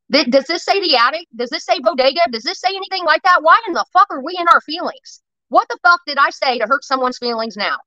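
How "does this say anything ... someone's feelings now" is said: higher-pitched exasperated questioning; irritated. Real, not acted. Streamer challenging chat over hurt feelings, irritated. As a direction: demand answers, real annoyance rising. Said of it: "I'm getting irritated with this".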